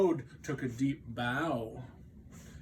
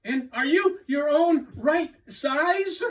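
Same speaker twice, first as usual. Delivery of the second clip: Toad voice; 12 semitones higher, 11 dB louder than usual. Acted. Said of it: "asked Toad".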